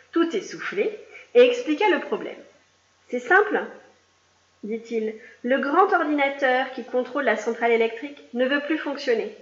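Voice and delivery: lively read-aloud storytelling voice; reading a picture book to young pupils; story narration. A narrator's reading. Teacher reading a story aloud to her class, lively.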